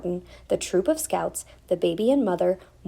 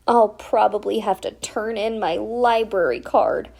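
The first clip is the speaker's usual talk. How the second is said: sobbing; 3 semitones higher, 4 dB louder than usual. Acted. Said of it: "sobbed Stella".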